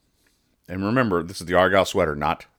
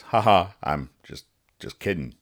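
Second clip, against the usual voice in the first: quiet, lowered, embarrassed cover-up; confused, sheepish backtrack; 3 semitones lower, 6 dB quieter than usual. Acted. Comic character covering his lobster mistake, confused and sheepish. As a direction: trail down into a sheepish mumble. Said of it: "you know, confused".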